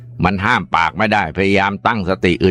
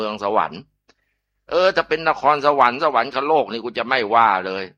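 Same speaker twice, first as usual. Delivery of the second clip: angry scolding; 4 semitones higher than usual. Acted. Husband berates his wife for believing the stranger, angrily. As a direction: tear into her for being so gullible.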